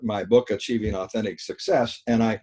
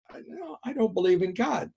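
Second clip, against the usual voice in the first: quoted woman; 11 semitones higher, 4 dB quieter than usual. Retold or imitated. Retelling her protest.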